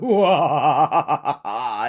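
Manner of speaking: laughing, drawn-out mock wail. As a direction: cackle through a long wah. Imitates reaction with laughter, files burning.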